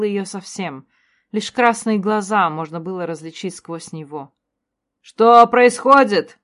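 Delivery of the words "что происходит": high, loud, slow panicked cry; frightened cries. A narrator's reading. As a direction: cry out in terror. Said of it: "раздались крики вокруг". (испуганные крики)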